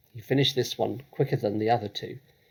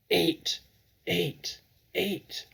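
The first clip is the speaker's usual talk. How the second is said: rising, higher with each eat; yelling; 7 semitones higher, much slower than usual. Acted. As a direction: hammer out the order three times. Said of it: "the Trunchbull was yelling".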